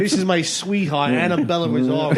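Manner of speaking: lightly voiced Brooklyn GI; Brooklyn soldier. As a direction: show off your sweetheart in Brooklyn accent. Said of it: "he's Brooklyn".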